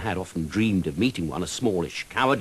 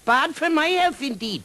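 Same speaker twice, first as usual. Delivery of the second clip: high, loud lilting outrage; indignant dragon cry; 5 dB louder than usual. Acted. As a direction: cry out offended, sing-song. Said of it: "cried the dragon".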